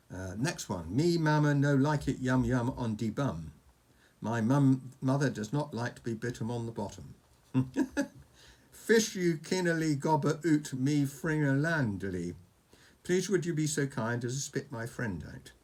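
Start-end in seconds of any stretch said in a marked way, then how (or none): 1.0-3.5 loud, playful dragon-language phrase; mock Dragonese. Reading Oscar a dragon phrase, mock Dragonese. 8.7-12.3 made-up dragon language, read out with relish; mock Dragonese. Reading Oscar a dragon phrase, mock Dragonese.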